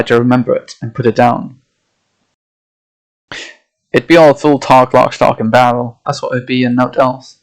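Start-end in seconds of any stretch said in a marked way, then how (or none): 3.9-7.4 lightly voiced old Yorkshire sailor, gruff and dismissive; a hint of a Yorkshire fisherman brushing off tall tales; old Yorkshire accent. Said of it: "having to find an accent here".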